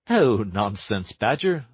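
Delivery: slow, breezy dismissal; lightly airy Toad; airily. Acted. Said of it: "said Toad rather airily".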